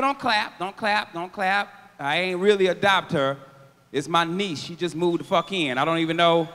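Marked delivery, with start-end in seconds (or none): 0.0-1.7 shushing the crowd. Retold or imitated. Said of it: "I tell people".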